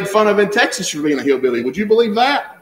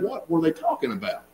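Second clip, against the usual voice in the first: puzzled inner thought; 4 semitones lower, 11 dB quieter than usual. Retold or imitated. Puzzled thought going home.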